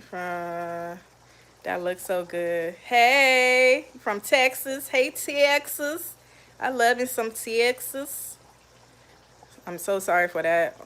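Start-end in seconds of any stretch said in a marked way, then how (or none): 2.7-8.4 drawn-out, higher-pitched Texas accent attempt; bad Texas accent. Shown as a demonstration. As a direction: greet Texas in a badly faked Texan accent. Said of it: "horrible accent I just tried to do".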